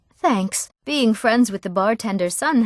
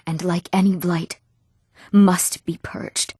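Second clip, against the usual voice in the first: slow, weighty pronouncement; grave and very deliberate; grim resolve; 2 semitones lower, slower than usual. Acted. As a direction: draw it out like a solemn verdict. Acted vow against the rebels.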